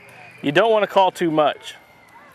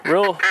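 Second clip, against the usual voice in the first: duck call honks; 11 semitones higher than usual. Shown as a demonstration. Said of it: "real abrupt".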